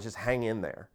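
soft, unbothered reassurance; calm quiet. Shown as a demonstration. To a ranting critic, soft calm reassurance. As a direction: brush it off gently. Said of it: "I got this one from Michael Malice".

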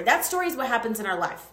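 ordinary talk

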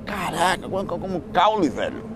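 fast, high, disgusted quote; mock disgust at chewing a stalk; disgusted outburst. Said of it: "eu falo".

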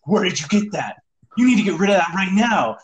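lightly urgent retold demand; mild mock alarm. Friend ordering another to ditch the weed, mildly alarmed. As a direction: imitate a friend getting worked up.

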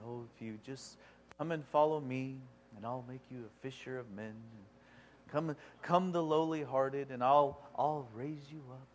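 very soft, low mock-meek voice; low, humble, timid. Preacher imitating a meek Jesus calling followers, low and humble. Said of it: "speaking in this low and humble tone".

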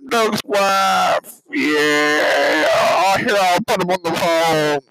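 high-pitched loud woman voice; screechy fake wife on the phone. Prank voice as Doug's wife.

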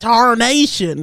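put-on slow, high old-timer exclamation; old person voice. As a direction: drawl it like a cranky old-timer. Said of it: "in an old person's voice".

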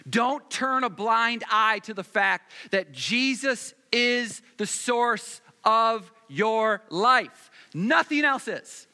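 loud, slow, building preacher's call; rising sermon fervor; preaching Jesus's words. Acted. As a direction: proclaim it as Jesus would. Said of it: "Jesus said".

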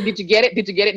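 sarcastic nudge. Retold or imitated. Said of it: "Nudge, nudge".

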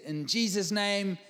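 slow build to a loud, high amen; bold prayer ending. Retold or imitated. Preacher closing a prayer to get to his steak, bold. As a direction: wrap it up boldly, punching the amen. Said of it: "trying to bring it to a bold end".

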